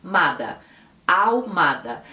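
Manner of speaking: Ahumada with a silent h, ah-oo-MA-da; Spanish Ahumada. Shown as a demonstration. Teacher demonstrating Spanish Ahumada, silent h. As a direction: say Ahumada without the h sound. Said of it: "eu colocava o som de R no H".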